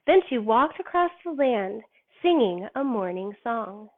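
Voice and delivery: lightly slowed storybook reading; reading to children. Acted. Teacher reading Earth Mother to kids, gentle storybook voice. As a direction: read it like a gentle bedtime story. Reads picture book aloud.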